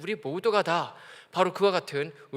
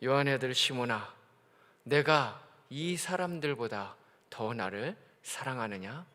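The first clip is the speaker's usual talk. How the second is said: gentle Jesus; 5 semitones lower, 4 dB quieter, slower than usual. Retold or imitated. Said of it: "예수님 뭐라고 말씀하십니까".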